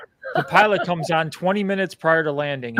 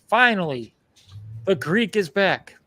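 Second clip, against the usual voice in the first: drawn-out triumphant return; mock triumphant; 4 semitones higher, slower than usual. Excited traveler at his gate, drawn-out triumphant. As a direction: announce your own return like a hero. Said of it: "I'm all excited".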